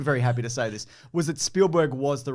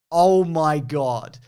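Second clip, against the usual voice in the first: awed gasp; 6 dB louder, much slower than usual. Retold or imitated. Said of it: "moments of like".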